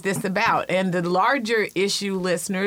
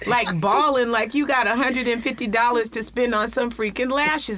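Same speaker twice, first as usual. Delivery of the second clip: high-pitched, worked-up rant; passionate; 5 semitones higher than usual. Real, not acted. Aunt ranting about money spent on lashes, passionate. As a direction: rant with real indignation, pitched up. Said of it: "I'm passionate about this".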